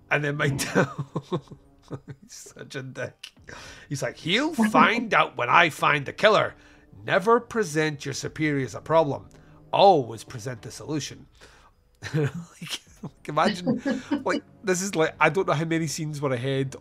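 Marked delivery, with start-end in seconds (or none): 4.2-11.3 mock pompous lecture. Sheriff lectures his deputy on superiors, mock pompous. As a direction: imitate a self-important boss schooling an underling.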